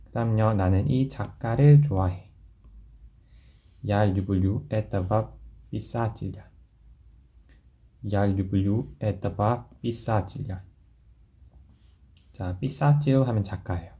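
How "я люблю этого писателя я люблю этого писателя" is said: slow model sentence. Shown as a demonstration. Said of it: "teacher models slow sentence".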